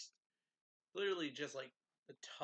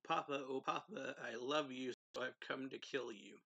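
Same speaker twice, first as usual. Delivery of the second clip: sing-song villain; 5 dB louder than usual. Retold or imitated. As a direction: croon it like a playful villain. Ferid's mocking greeting to Rigger.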